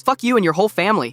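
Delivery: high, loud furious yell; an unhinged walker yelling at a dad on a bike. Retold or imitated. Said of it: "Then he turns to me and goes".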